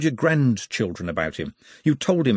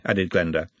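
ordinary delivery

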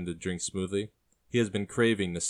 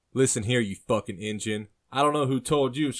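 loud, rising captor's threat; angry threat; 5 semitones higher, 6 dB louder than usual. Acted. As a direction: lay into the prisoner, building higher. Captor threatens tied prisoner.

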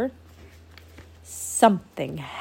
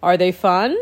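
regal proclamation; 5 dB louder than usual. Acted. Grandpa proclaiming.

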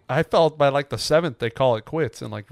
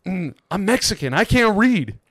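put-on quoting drunk fan; 3 semitones higher than usual. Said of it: "his words, quoting".

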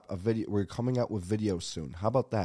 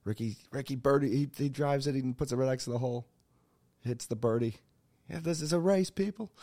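higher, steady play-by-play; golf commentator; 4 semitones higher than usual. Retold or imitated. Host relives watching golf on a Sunday, mock commentary. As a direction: call the putt like an excited commentator, pitched up.

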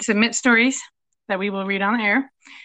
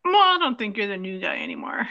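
whispering. Real, not acted. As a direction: whisper it as an aside. Teasing aside to cohost.

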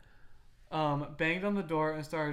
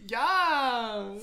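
mock dominant; 9 semitones higher, 11 dB louder than usual. Continuing dominant parody.

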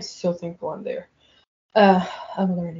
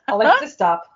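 loud scolding "Alexa, stop"; curt command; 3 semitones higher, 7 dB louder than usual. Retold or imitated. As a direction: bark it at a naughty device. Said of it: "It's like she's doing something bad".

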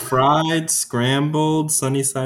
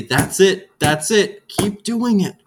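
higher, louder cheering elf voices; encouraging elves; 6 semitones higher, 3 dB louder, slower than usual. Retold or imitated. Elves cheering the tripper on, lightly higher voices. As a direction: cheer them on like delighted elves. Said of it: "They say".

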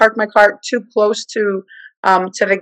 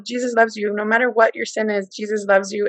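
softer, gentle comfort; tender reassurance; 5 dB quieter than usual. Retold or imitated. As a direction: soothe her gently. Tender words to nurse.

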